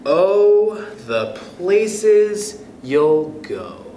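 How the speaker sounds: lively storybook read-aloud voice; expressive picture-book reading; reading to children. Acted. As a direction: read it to a class of kids, bright and sing-song. Teacher reads picture book aloud.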